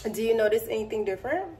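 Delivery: soft and quick, coaxing viewers to look; quiet playful tease; hushed, hurried, teasing; hushed teasing question. Pretend. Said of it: "teasing viewers, repeated".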